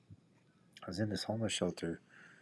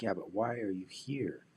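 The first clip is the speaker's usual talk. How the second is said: slow put-on guy voice; 3 semitones higher, 4 dB louder, slower than usual. Guy voiced in retold story.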